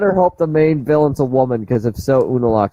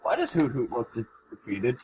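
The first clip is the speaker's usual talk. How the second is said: quiet question that barely carries; too quiet to hear; 10 dB quieter than usual. Real, not acted. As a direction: ask it barely audibly, away from the mic. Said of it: "can't hear a fucking thing you're saying".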